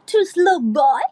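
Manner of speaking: put-on "To Slow Boy" punched out, rising at the end; punchy pronunciation. Shown as a demonstration. Singer explains how to make it fun, punchy "To Slow Boy". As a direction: hit "To Slow Boy" with relish and lift the end. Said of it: "มันๆ เราต้องแบบออกเสียงว่า".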